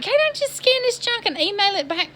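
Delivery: high, pleading, disbelieving question; exasperated plea. Retold or imitated. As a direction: beg them to make it simple. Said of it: "I'm like".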